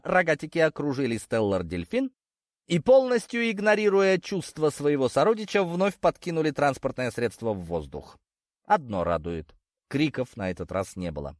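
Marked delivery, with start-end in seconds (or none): none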